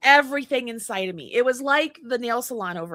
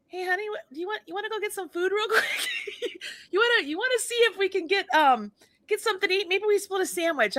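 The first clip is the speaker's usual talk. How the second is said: careful politeness; 8 semitones higher than usual. Retold or imitated. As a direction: tiptoe politely, don't poke the bear. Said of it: "he's talking just like this. Very polite".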